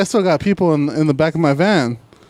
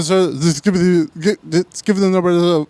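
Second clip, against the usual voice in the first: mock flustered stammer, restarting words; imitated stuttering; 3 semitones higher than usual. Flustered collector asking for a number before hanging up, imitated stuttering. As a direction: trip over the words and restart. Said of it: "He started stuttering?".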